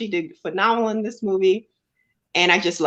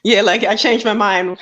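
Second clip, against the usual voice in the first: laughing repeat; 2 semitones higher, 4 dB louder than usual. Real, not acted. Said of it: "Say that again?".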